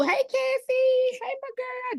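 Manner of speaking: high, slow, sing-song hello to a friend; excited greeting. Real, not acted. Host greeting her friend Cassie in the chat, high and delighted.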